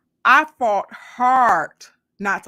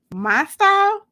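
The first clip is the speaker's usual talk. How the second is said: surprised; 10 semitones higher, 7 dB louder, slower than usual. Acted. Surprised at compliment, points at chest.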